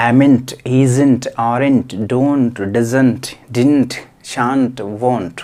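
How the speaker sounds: amn't, isn't, aren't, don't, doesn't, didn't, shan't, won't each said slowly and distinctly, every final n't crisp; careful contraction drill. Shown as a demonstration. Teacher drilling English contractions for Telugu-medium students, slow and deliberate. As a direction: spell out each contraction for the class one by one. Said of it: "pronunciation పలకడం రావాలి".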